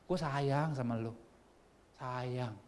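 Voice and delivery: slow, softened declaration of love; deep affection. Acted. Preacher voices God's love for you, tender. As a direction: let it sink down tenderly. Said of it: "Udah sayang banget itu, dalam banget".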